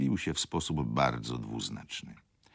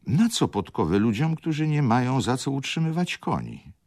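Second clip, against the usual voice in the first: higher, pointed question from a bitter lady; a hint of a wronged wife; indignant lady; 11 semitones higher, 6 dB louder than usual. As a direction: needle the clerk with scorn. Lady asks sharply.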